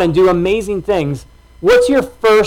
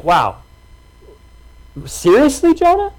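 incredulous; 7 semitones higher than usual. Retold or imitated. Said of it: "you're like".

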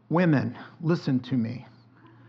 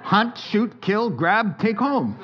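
punchy hunter list; 5 semitones higher, slower than usual. Acted. Hunter shopping metaphor.

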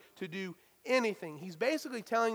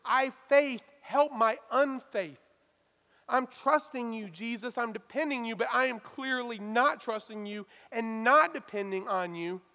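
pleading cry; 3 semitones higher, 5 dB louder than usual. Retold or imitated. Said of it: "The man then cries out".

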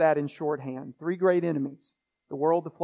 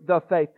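"the" given its own beat before "faith"; a firm, separate THE; stress on THE; 5 dB louder than usual. Shown as a demonstration. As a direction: lean on "the". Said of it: "I'm emphasizing the word "the".

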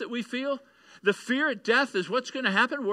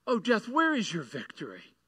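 taunting. Retold or imitated. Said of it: "He begins to taunt death".

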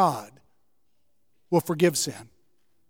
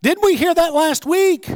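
higher, exasperated sigh of a voice; preacher voicing a fed-up God, higher; mock weary God; 9 semitones higher, 5 dB louder than usual. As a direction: roll eyes as an impatient God.

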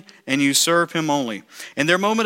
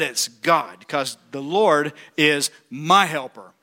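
slow, lower, sincere; reverent; 3 semitones lower, slower than usual. Acted. Preacher to church, slow sincere conviction.

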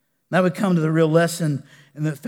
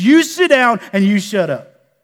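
put-on preacher-boy rebuke; 2 semitones higher, 4 dB louder than usual. Preacher voicing Jesus scolding wind and waves, stern rebuke. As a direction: punch the opening order, then drop. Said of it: "preacher boys like to say it like this".

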